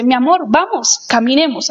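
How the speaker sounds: a loving ask to go for a walk; gentle invitation. Shown as a demonstration. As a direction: invite them warmly to walk. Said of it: "Es muy diferente a decirle".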